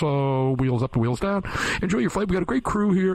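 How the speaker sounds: drawling airline captain announcement; hammed-up pilot on the intercom; pilot cockpit headset. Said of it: "says stuff like this".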